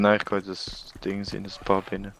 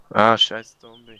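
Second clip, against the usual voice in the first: angry yell; 10 dB louder, slower than usual. Real, not acted. Cursing zombie in game.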